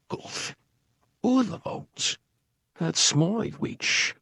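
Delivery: jumping wildly high, slow growled words; a monstrous yowl and croak; terrible beast voice. Acted. Beast threatens the dragon, terrible voice. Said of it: "its terrible voice".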